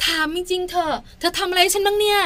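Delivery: high, whining mock reproach; acted wife's aggrieved complaint; comparing wife. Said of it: "เปรียบเทียบ อันนี้เจ็บใจสุด".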